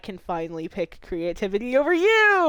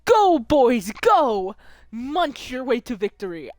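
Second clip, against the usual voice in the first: cheering coach; 2 semitones higher than usual. Acted.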